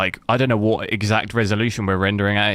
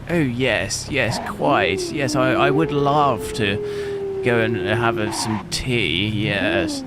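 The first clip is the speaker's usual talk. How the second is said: slow, posh English movie voice; mock-posh Englishman from an American film; 3 semitones higher, much slower than usual. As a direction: ham up a prim English gent offering tea. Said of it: "they're always like".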